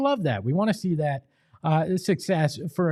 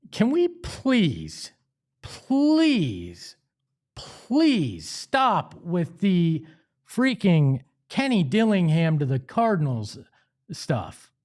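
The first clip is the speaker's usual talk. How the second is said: pleading; much slower than usual. Real, not acted. Host begging fans to drop the rumor, slow exasperated plea. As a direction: stretch each please out, begging them to quit.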